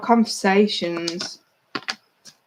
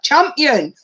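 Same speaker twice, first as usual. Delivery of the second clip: Geordie accent; 4 semitones higher, 4 dB louder than usual. Shown as a demonstration. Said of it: "like, a Nuki accent".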